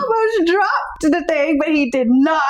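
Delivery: high voice full of laughter; barely holding the laugh back; laughing while talking. Real, not acted. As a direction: push the story out through giggles. Still laughing through the story.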